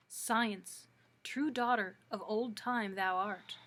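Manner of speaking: put-on measured, formal recital of old verse; poetry reading. Librarian reads Poe's Sonnet to Science to listeners, measured recital. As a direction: read each line deliberately, pausing after it.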